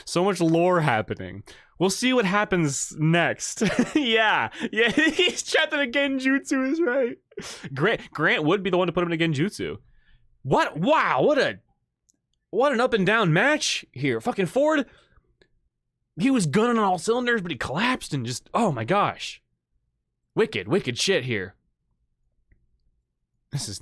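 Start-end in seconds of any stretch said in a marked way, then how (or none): 3.8-7.2 high-pitched talking through laughter; laughing. Real, not acted. Laughs at chat's theory. 10.4-19.4 high, excited disbelief; amazed. Real, not acted. Marvels at the wild match.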